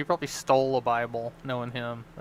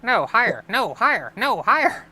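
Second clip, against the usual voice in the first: much higher, much louder repeated cries; mock insistent shout; 8 semitones higher, 8 dB louder than usual. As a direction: yell higher and higher. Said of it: "his brain's like".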